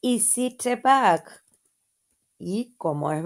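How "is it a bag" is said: slow model question. Shown as a demonstration. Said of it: "Entonces, ¿cómo es la pregunta?".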